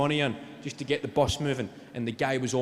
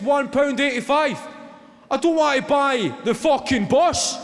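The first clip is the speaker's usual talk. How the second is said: mock outraged rant; 7 semitones higher, 6 dB louder than usual. Passenger loses it at driver.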